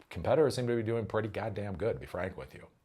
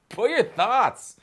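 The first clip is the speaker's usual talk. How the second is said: drawn-out call; 10 semitones higher, 7 dB louder, slower than usual. Acted. Call to comment.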